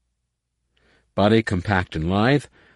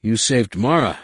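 rasped; 3 semitones higher than usual. Acted. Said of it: "he rasped".

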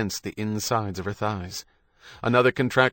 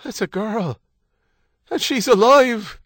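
high, elated announcement building louder; joyful; 11 semitones higher, 7 dB louder than usual. A narrator's reading. New father telling his wife the news, joyfully. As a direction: proclaim it with joy, stretching the end. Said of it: "There was joy in Stephen's voice".

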